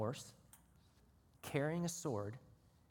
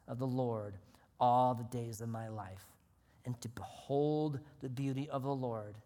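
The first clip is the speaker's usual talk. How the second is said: reverent recitation; 4 semitones lower than usual. Acted. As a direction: read it slowly, with reverence. Reciting psalm, slow and soft.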